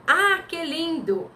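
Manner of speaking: high, slow, admiring sigh of delight; admiring exclamation. Shown as a demonstration. Teacher reading an example, slow and admiring. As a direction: swoon over something lovely. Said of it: "Pra dar aquela entonação".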